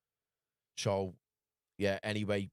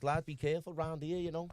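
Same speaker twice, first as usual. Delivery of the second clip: higher mock warning voice; a put-on higher voice giving advice; imitating the stranger warning; 7 semitones higher than usual. The stranger warning him at the motel, in a higher mock voice. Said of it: "he's like".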